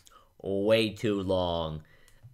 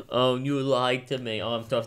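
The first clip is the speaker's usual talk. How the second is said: slightly higher, lightly mocked emotional woman; overly emotional woman; 4 semitones higher than usual. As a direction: give a hint of a melodramatic, wounded woman. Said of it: "overly emotional woman character who's like".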